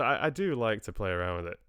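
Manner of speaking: playfully put-on Scottish accent. Shown as a demonstration. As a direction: play around in a Scottish accent. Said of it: "a wee Scottish accent".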